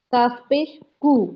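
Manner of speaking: "کاف پیش کو" slowly, "کو" with a long o; demonstrating the u sound. Shown as a demonstration. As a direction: show the class "کو" slowly. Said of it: "واو کا sound ملانا ہے". ("کو" لمبی او آواز کے ساتھ)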